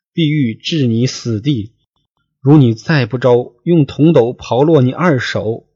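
a storyteller's mild tearful wail to the queen; 说书人轻度哭腔; crying lament. Acted. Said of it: "放声大哭曰".

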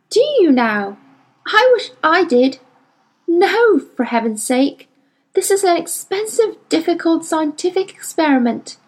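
lightly voiced exasperated scientist; a hint of a weary, annoyed adult; Doctor Malone scolding. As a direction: tell off the girl with tired impatience.

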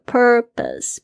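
"Purpose" with r-coloured first syllable, plain schwa second; one curled r only. Shown as a demonstration. Teacher showing listeners the two syllables, careful pronunciation of "Purpose". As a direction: curl the tongue only on the first half of "Purpose". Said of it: "一个是有卷舌，一个是没卷舌".

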